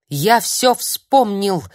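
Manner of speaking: медленно и громко выкрикнуто; кричит, будто прозрел; выкрик. Acted. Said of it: "выкрикнул дядь Юра". (старик вскрикивает в панике)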